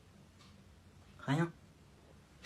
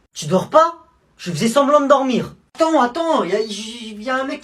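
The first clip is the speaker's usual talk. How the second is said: panicked; 7 semitones higher, 7 dB louder than usual. Acted. Panicked about a man at night.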